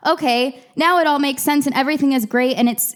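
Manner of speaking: put-on everything-is-great voice; mock elation. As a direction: act out a sudden happy breakthrough. Imagines a moment of sudden clarity.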